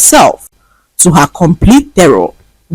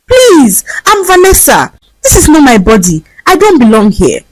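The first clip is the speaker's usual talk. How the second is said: high, urgent begging; pleading; 8 semitones higher than usual. A narrator's reading. Vanessa begging a stranger on the street, high pleading. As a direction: plead for him to believe you. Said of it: "plead with him for help".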